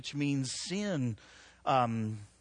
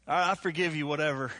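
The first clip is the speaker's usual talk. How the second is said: grudging forgiveness; faster than usual. Retold or imitated. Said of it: "That, that's not forgiveness".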